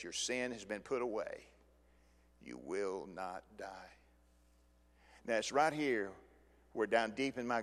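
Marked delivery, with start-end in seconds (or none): 0.0-3.9 soft, slow, lower pardon; gentle pardon. Acted. Nathan to David, soft slow pardon. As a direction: grant it tenderly.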